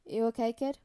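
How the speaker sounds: put-on gently checking on a kid; understated, caring question; gentle. A narrator's reading. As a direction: ask with mild concern.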